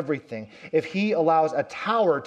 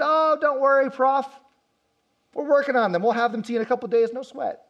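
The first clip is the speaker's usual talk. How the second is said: casual, breezy student brushing off the professor, higher and louder; careless student; 9 semitones higher, 4 dB louder than usual. Retold or imitated. Student brushing off the professor, casual and carefree. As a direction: toss it off like it's nothing. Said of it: "one of them said".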